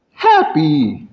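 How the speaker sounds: demonstrated cheerfulness; happy. Shown as a demonstration. Speaker demonstrating a range of emotions, happy. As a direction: say it like you are happy. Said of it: "you can have a range of emotions".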